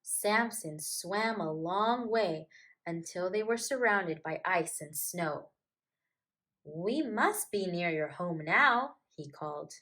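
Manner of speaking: put-on gentle storybook reading to children; story narration. A narrator's reading. Storyteller reading a picture book to kids, gently. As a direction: read it like a bedtime picture book.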